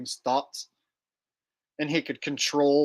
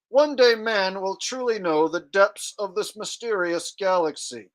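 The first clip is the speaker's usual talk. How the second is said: mock speech-synthesizer voice, pitched up; higher, measured robot-voice impression; Stephen Hawking's box; 5 semitones higher than usual. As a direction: recite like a talking computer box. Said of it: "the voice that talks for Stephen Hawking".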